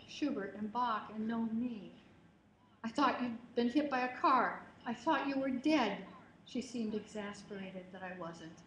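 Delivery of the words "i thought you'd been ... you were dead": louder scared scolding; ferocious mother. Retold or imitated. Mother scolding daughter after her terror, louder frightened scold. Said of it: "my mother's ferocity".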